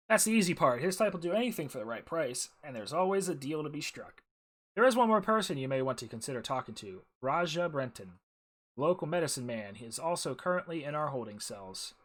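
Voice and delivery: lively, projected reading of a character's lines; voiced-up quest briefing, lightly acted; game dialogue read-aloud. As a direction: read the dialogue out clearly with some lift.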